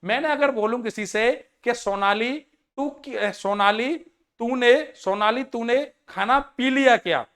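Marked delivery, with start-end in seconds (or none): 1.7-7.2 mock wrong Hindi line. Shown as a demonstration. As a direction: say it like an honest blunder. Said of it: "अगर मैं हिंदी में बात करूं". ("सोनाली तूने खाना पी लिया क्या?" को धीरे-धीरे गलत हिंदी की तरह कहना)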